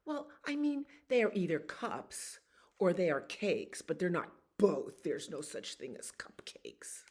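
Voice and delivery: know-it-all frog. Acted. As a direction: lay it out like a smug little know-it-all. Frog lecturing dragon.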